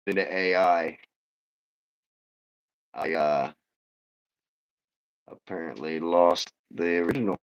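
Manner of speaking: robotic, glitchy filtered audio. Real, not acted. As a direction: sounds like a robot through the green screen filter. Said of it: "your green screen's making the audio make you sound like a robot".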